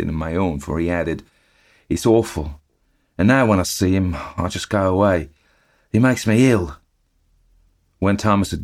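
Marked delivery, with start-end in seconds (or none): 1.9-6.8 chatty eager bellboy reporting the news; Cockney bellboy. Acted. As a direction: Thomas the bellboy gossiping to his master. Thomas ends his tale.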